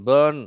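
பர்ன் with drawn-out er; long vowel. Shown as a demonstration. Teacher telling learners how to say it, long vowel. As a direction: hold the er in பர்ன் before the n. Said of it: "அப்படின்னு சொல்லணும்".

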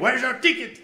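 put-on guard yelling at a drunk fan; mock yell. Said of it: "ele já deu um grito".

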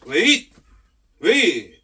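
loud, short order; firm command. Real, not acted. Trainer ordering the dog to stay, firm command. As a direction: call out a forceful wait.

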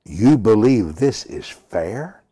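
slow, loud disbelieving question; shocked challenge. Retold or imitated. Preacher retelling his challenge to a man's offer, shocked. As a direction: ask it in slow, pointed shock. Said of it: "looked at him in shock".

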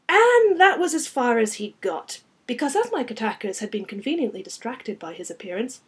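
lively, projected action narration; story narration. A narrator's reading. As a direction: read the fight out with drive. Reads own novel aloud.

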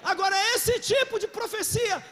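loud, slow preacher voice; full preaching. Real, not acted. Preacher rousing the congregation, loud preaching. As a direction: preach it out with force.

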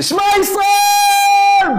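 high, loud, slow desperate prayer cry; desperate cry of faith; crying out Shema Israel. Retold or imitated. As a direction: cry out to God at the moment of impact. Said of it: "מה שיצא לי זה".

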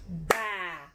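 "Batata" soft and low, ba... ta... ta; syllable by syllable. Shown as a demonstration. Teacher counting three syllables for pupils, soft and separated. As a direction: count out "Batata" quietly in three spaced beats. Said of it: "Nós temos três sílabas".

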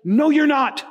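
high, loud playful "No, you're not"; mock retort. Pastor retelling how he corrected his friend, high and loud. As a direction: shoot him down with a laugh in your voice.

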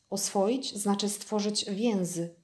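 calm, slow statement with "stworzyć więzy" falling at the end; fox's measured statement, "więzy" landing flat and final; slow explanation. Acted. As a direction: spell the idea out slowly to the prince. Fox explains a new word.

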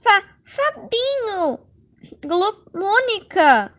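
stammering, slow panicked gulp; caught out. Acted. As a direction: trip over the names in fright. Caught with the other girl.

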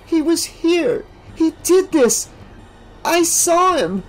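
high, slow, dazed insistence; shaken rambling. A narrator's reading. Alice in shock after the death, rambling high. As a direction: keep repeating it in shock. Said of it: "Alice rambled on and on".

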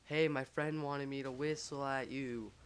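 mild mock yell, drawn out; retold yell. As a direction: call it out slowly, half-yelling. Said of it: "I yell".

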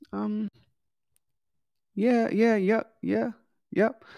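unsure yeses that trail and hedge; skeptical yes. Shown as a demonstration. Client Sally unsure about the program, hesitant high yeahs. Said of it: "Sally has a skeptical yes".

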